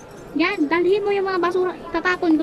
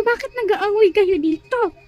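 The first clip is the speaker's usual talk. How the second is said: slow, drawn-out teacher's demand; cross teacher breaking up a fight; stern scolding; 3 semitones higher, 4 dB louder, slower than usual. Acted. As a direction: raise the voice and stretch it out. Teacher catches pupils fighting.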